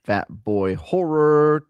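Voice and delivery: "Horror" said slow in a posh British way; a posh British "Fat Boy Horror"; British accent. Acted. Co-host saying the fan's name in a posh British accent. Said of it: "I did British".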